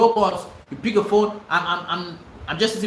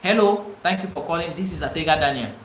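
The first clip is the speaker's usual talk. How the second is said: professional greeting. Shown as a demonstration.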